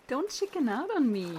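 high, loud dare; playful goading call. Acted. Daring a friend to get into the water, calling out loudly. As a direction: call out a teasing challenge.

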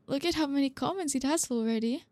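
giggling through excited words; laughing. Acted. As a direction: laugh while showing off the post. Shows off viral post, laughing.

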